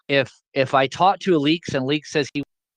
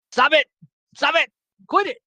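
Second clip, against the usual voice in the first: playful teasing; 13 semitones higher, 4 dB louder than usual. Real, not acted. Teasing student with braces.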